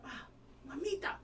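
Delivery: mock-effusive phone hello; excited greeting. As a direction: greet a dear friend with playful gusto. Imitating Carmen's phone greeting.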